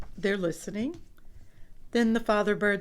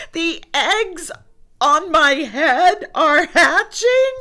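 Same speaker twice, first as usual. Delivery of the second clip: higher, louder, slow alarmed cry; alarmed question; 7 semitones higher, 9 dB louder, slower than usual. Acted. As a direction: Gerald freaking out. Gerald alarmed.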